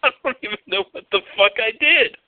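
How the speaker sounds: high, quick retold protest; baffled protest. Retold baffled protest at her insult.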